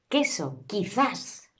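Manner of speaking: "Queso", "quizás" with plain k, no u; u muet. Shown as a demonstration. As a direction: model "Queso" and "quizás" as keso, kithas. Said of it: "Hacemos como si la U no existiera".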